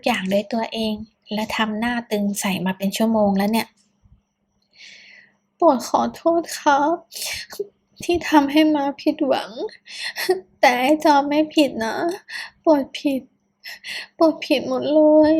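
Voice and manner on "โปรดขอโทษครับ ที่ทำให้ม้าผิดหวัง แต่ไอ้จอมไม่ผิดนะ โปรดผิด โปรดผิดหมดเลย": higher, tearful sobbing apology; crying apology. Acted. Boyfriend sobs apologies to the mother, crying. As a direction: keep apologizing through tears. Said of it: "โปรดปรานไม่หยุดร้องไห้".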